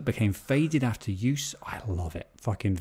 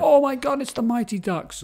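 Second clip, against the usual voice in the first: squealing, much higher and louder; thrilled child spotting the film; excited kid; 4 dB louder than usual. Retold or imitated. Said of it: "you'd be like".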